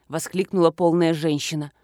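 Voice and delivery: usual speaking voice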